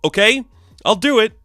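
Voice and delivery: scary villain lady. Retold or imitated. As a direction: play the scary dark-haired lady, hammed up. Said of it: "a dark-haired, scary lady".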